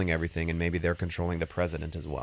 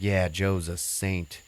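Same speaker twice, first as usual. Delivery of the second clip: slow, drawn-out sarcasm; sarcastic; much slower than usual. Retold or imitated. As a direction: say it like you don't mean it. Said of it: "like, all sarcastically".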